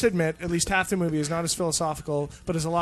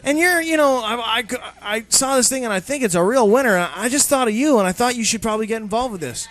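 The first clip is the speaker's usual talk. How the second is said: higher, louder eager pitch; lightly hammed-up recruiter; recruiting pitch; 5 semitones higher, 4 dB louder than usual. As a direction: friend recruiting for multi-level marketing. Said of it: "And then he goes".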